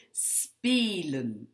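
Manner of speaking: spelen with a lengthened first vowel; long E. Shown as a demonstration. Teacher introducing the long-sound example, spelen with a long E. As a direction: stretch the ee in spelen. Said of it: "Lorsque le son est long".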